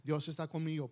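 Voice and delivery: low, offhand yeah-I-know; mock bored acknowledgement; dismissive cliché response. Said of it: "algo cliché, algo como que".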